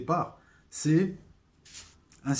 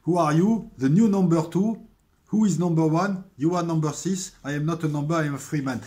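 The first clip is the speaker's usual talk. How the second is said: put-on louder, higher English lines with a French accent; dialogue récité; 4 semitones higher, 6 dB louder than usual. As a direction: replay the series' interrogation as both men. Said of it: "ce dialogue". (dialogue du Prisonnier joué, plus fort et plus aigu)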